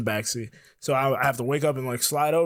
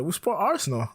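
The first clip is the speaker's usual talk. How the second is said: higher mock British voice; lightly imitated British accent, badly done; 4 semitones higher than usual. Stranger naming his football team, bad British accent. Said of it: "I'm gonna do a bad British accent here".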